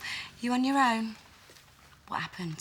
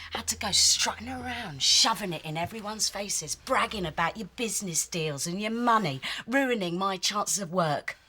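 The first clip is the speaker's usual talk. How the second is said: angry accusation; 3 semitones higher than usual. Acted. Accusing rival.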